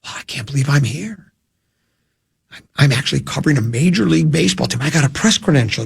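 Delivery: rushed, breathless rookie gushing over a press pass; excited rookie reporter. Retold or imitated. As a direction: gush like a kid on his first day covering the team. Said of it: "you're young and you're excited".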